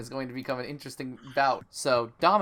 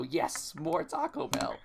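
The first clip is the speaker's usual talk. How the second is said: brain voice; 4 semitones higher, 5 dB quieter, slower than usual. Retold or imitated. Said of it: "make my brain go".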